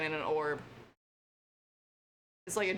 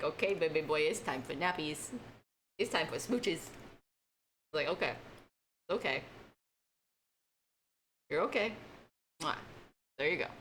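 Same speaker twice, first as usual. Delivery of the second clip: put-on cooing to a baby; 3 semitones lower, 3 dB quieter than usual. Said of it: "I'd be like".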